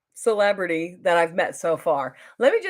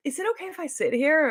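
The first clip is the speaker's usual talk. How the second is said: high-pitched, quick, lightly Southern request; imitated Southern accent; 8 semitones higher, faster than usual. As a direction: ask politely with a hint of Southern accent. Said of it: "with his Southern accent".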